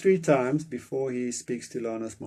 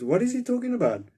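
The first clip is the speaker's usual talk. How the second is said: high, shocked question; 12 semitones higher, 4 dB louder, faster than usual. Retold or imitated. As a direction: ask in disbelief. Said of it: "a shocked expression".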